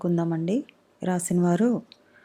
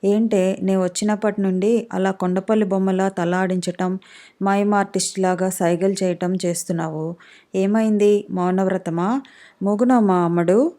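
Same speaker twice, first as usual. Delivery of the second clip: usual speaking voice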